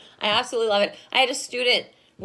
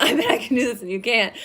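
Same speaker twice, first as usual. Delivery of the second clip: fast, giggling brag; laughing taunt; faster than usual. Retold or imitated. Competitive couple daring each other, laughing taunt. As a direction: repeat the dare, laughing through it. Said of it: "we're like".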